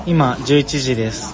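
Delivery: stiff robotic syllables; slow, loud, evenly spaced syllables. Real, not acted. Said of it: "急にロボットみたいになって".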